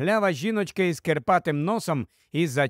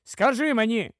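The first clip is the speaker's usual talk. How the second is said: heated, higher-pitched demand; sudden flare-up; 6 semitones higher than usual. Acted. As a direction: press her for an answer. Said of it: "розпалився раптом чоловік". (запальна вимога відповіді)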